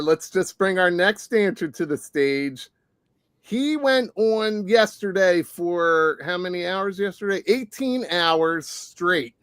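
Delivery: slow drawn-out club intro; announcer voice. Acted. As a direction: stretch it like a DJ hyping the stage. Announcer introducing next dancer.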